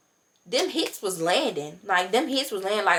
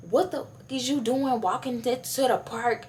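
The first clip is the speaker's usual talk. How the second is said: mock yelling mom; 5 semitones higher, 3 dB quieter than usual. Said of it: "she just started yelling at me".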